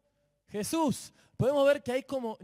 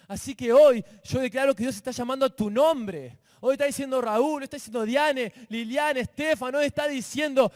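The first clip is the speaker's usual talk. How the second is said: loud, rising declaration over the congregation; full-force preaching; 3 semitones higher, 7 dB louder than usual. Acted. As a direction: proclaim it like a fiery pastor. Declara con fuerza a la congregación. (el predicador declara a la congregación, a plena voz)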